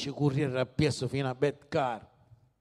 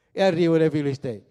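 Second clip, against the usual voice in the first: ordinary delivery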